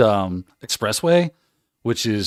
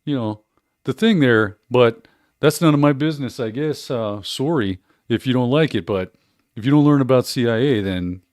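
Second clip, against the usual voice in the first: put-on Canadian accent. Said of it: "do it in, in Canadian".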